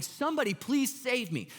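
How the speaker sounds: high-pitched retold begging; mock screaming plea. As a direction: imitate a frantic kid pleading for rescue. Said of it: "weeping and screaming at the top".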